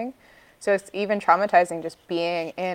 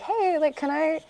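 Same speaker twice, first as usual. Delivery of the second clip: much higher polite white lady voice; 10 semitones higher than usual. Retold or imitated. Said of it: "like, white lady voice".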